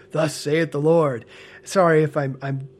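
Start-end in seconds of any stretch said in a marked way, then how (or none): 0.1-1.3 slow, solemn mock-prophetic voice; pompous prophet. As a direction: intone it like a self-important prophet. Mocking a pompous prophetic pronouncement.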